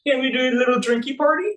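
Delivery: high, sugary coaxing; sweet-talking Esther. Retold or imitated. Esther sweetly coaxing the king into a feast. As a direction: charm the king into a party. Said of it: "Esther says something along the lines of".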